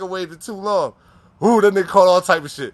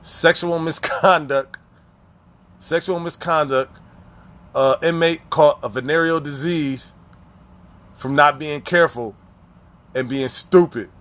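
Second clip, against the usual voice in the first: slow, lower, deadpan official reading; reading the ticket; 4 semitones lower, slower than usual. Retold or imitated. Reading the inmate's ticket aloud, slow deadpan official reading. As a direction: read it out like a dry citation. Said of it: "It say".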